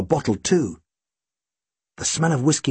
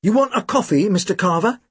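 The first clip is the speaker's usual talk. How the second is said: higher, eager big brother; lightly voiced eager Tim; Tim's voice; 6 semitones higher than usual. Big brother offers the client coffee, eager and higher. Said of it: "Tim asked".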